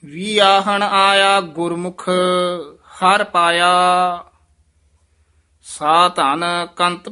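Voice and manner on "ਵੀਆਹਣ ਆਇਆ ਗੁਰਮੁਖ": a brief halt after ਗੁਰਮੁਖ; short halt. Shown as a demonstration. Teacher showing the short halt: a brief stop after ਗੁਰਮੁਖ. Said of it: "ਇੱਥੇ ਠਮਕ ਲਾ ਦੇਣੀ ਹੈ".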